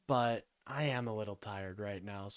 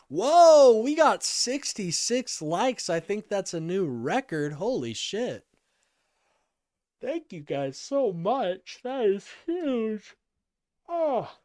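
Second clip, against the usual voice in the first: higher and louder, slowed right down in awe; excited whoa; 8 semitones higher, 9 dB louder, slower than usual. Real, not acted. Streamer thrilled by record likes, exclaiming with joy. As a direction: gush with real delight. Surprised at the like count.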